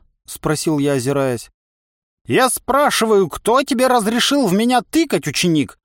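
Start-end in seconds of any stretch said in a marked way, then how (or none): 2.3-5.8 high, loud and creaky, menacing; a furious ancient creaky-voiced trainer; creaky old man voice. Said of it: "Скрипучим голосом старик грозно потребовал".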